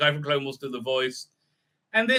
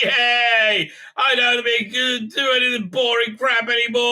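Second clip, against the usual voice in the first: high, loud gleeful cheer; gleeful kid; 6 semitones higher, 4 dB louder than usual. Retold or imitated. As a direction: cheer like a kid let off chores. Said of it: "He's like".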